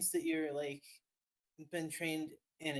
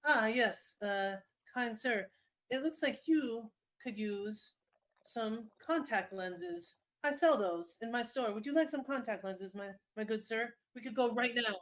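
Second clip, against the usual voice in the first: higher, slow, oily sales pitch; a pushy street vendor, pitched up; smarmy salesman voice; 5 semitones higher, 3 dB louder than usual. Acted. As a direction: sweet-talk a customer, stretching each word. GM voices gargoyle NPC salesman.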